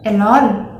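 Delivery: 'elon', R replaced by L, Thai-style; Thai accent. Shown as a demonstration. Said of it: "In Thai accent, this word is pronounced as".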